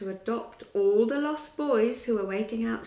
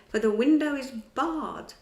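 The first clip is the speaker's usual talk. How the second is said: higher, calling out to the lady; crying out; 4 semitones higher, 7 dB louder than usual. A narrator's reading. Peter taunting the mother, crying out higher. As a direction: sing out the music's message. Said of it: "Peter cried".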